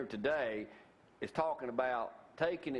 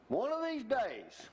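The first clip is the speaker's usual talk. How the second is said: drawn-out dreamy wish; 8 semitones higher, slower than usual. Acted. Wistful dream, repeated phrase.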